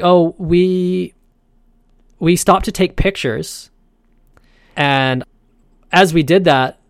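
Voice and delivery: flustered tourist explaining why the line stopped; stuck tourists. Retold or imitated. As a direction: play the lost girl who stopped for photos. Voicing the stuck people ahead.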